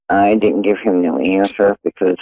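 usual speaking voice

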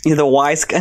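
half-hearted New York wise guy; New Yorker accent. Shown as a demonstration. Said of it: "Do a New Yorker accent".

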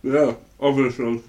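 talking while eating pasta; words round a bite of food; mouth full. Acted. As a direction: answer through a mouthful. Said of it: "The character is also just eating pasta".

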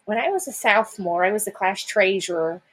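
imitating a mother's Chicago vowels; lightly mocked Chicago accent. Imitating mom who can't hear it, Chicago accent. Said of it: "like, very Chicago-y".

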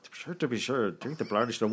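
a hammed-up Irish accent; mock Irish accent. Host reads a listener's review title in mock Irish accent. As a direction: lay on a jokey Irish brogue. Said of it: "do this in my best Irish accent".

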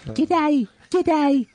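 G'day sung out high and drawn, showing how it's done; showy high g'day. Shown as a demonstration. Wrestler shows the host how to say "G'day" big and high. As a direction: greet like a ring announcer hyping the star. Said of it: "Do it again".

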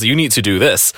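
impression of dad. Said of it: "That's my impression of my dad".

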